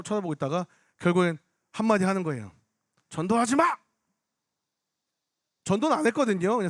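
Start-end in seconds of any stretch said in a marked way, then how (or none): 3.1-3.7 mildly raised, pitched-up mock protest; retold angry outburst. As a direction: imitate an angry heckler's cry. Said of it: "막 화를 내길래".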